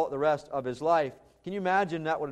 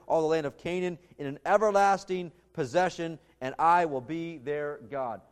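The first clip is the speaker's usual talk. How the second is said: scripture reading; 3 dB louder than usual. Acted. Reads God's covenant words aloud.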